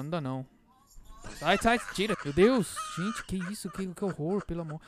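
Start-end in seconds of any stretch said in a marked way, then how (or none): 1.4-4.8 loud, higher, disgusted cries; disgusted yelling. Real, not acted. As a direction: yell to stop the awful song. Disgusted by the song playing.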